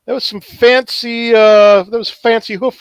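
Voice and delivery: high, bright chatter to a friend; checking on the deer after a fight; high friendly voice. Acted. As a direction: talk up to him cheerfully. Talking to a deer companion.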